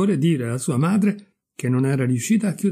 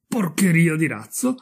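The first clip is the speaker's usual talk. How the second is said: higher, questioning repeat with rising end; incredulous echo; 4 semitones higher than usual. Acted. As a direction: repeat the insult in mounting disbelief. Repeats the insult, more incredulous.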